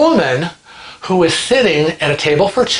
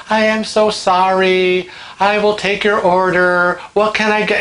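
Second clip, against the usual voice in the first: pleasant and patient; 4 semitones higher than usual. Retold or imitated. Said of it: "he was so pleasant and so nice".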